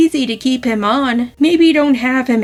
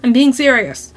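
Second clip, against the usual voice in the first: put-on "I'm being serious" with a light Italian-American accent. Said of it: "I've had this Italian accent in my head".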